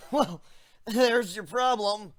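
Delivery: a slow, dry TV-host wrap-up; deadpan like a science-show host; lightly voiced Mythbusters host quip; Mythbusters-style quip. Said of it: "in the classic Mythbusters manner".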